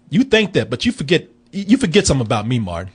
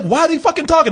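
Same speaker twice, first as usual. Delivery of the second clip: mock baffled, high; 10 semitones higher, faster than usual. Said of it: "people like".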